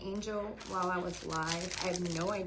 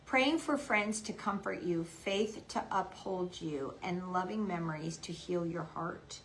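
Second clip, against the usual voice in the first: prayer reading; 3 semitones lower than usual. Real, not acted. Reads a prayer tag aloud.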